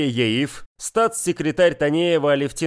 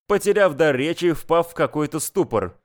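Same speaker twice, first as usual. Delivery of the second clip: usual speaking voice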